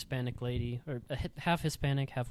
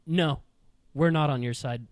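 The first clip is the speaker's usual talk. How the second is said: tag firm refusal; 7 dB louder than usual. Retold or imitated. Whole class rejecting the kid.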